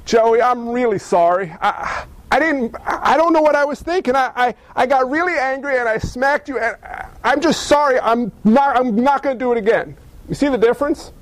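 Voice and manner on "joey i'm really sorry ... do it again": put-on a heartfelt kid's apology, stumbling and earnest; mean every word, halting as you go; a kid truly apologizing to Joey after smacking him; sincere apology. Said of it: "Repentance is more like".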